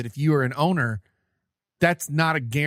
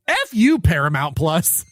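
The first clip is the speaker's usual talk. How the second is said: loud outburst; 4 dB louder than usual. Real, not acted. Venting at streaming service.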